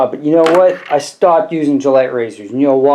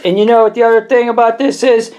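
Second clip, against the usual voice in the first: mock-outraged rant; 5 semitones higher than usual. Rant against Gillette, pitch climbing.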